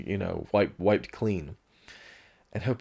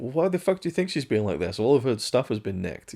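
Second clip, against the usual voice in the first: exasperated mock retort; 4 semitones higher than usual.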